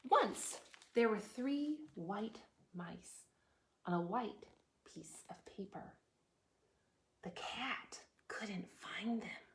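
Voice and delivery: slow, hushed storytime reading; measured, gentle story voice with pauses; picture-book narration. Acted. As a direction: read softly to little children, pausing between phrases. Reads picture book aloud.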